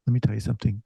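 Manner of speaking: imitated calm, pointed questioning; calming supervisor. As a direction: voice a supervisor settling someone down. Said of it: "she calmed me down".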